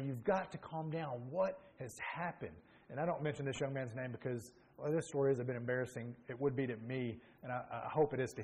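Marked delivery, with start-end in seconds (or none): 0.0-2.6 calming a friend. Retold or imitated. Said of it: "And I say".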